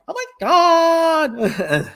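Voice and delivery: put-on high, exasperated Valley Girl; Valley Girl accent. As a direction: stretch it out like a fed-up Valley Girl. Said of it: "have a Valley Girl accent".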